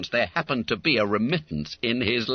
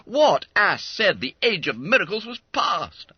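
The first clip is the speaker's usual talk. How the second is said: higher-pitched comic incredulity; amazed; 10 semitones higher, 4 dB louder than usual. Acted. Schoolmate marvelling at the money's arrival, amazed. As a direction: ask the room in wonder.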